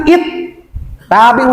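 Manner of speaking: "it, tabi'u" split by a gap; wrong broken reading. Shown as a demonstration. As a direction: break off after "it", then "tabi'u".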